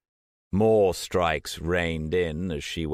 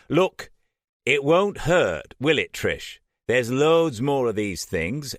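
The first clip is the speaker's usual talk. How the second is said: higher, louder anxious appeal; pleading; 5 semitones higher, 4 dB louder than usual. A narrator's reading. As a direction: try to calm both women down. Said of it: "almost pleadingly".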